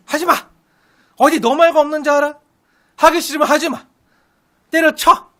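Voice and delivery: loud, exasperated scolding; mock angry outburst. Preacher playing himself fed up with Moses, angry. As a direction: throw up your hands and snap at him. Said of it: "만약에 저 같으면".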